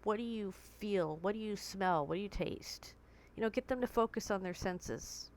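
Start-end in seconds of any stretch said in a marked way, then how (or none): 0.0-2.9 grounding questions. Shown as a demonstration. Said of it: "ask 'em".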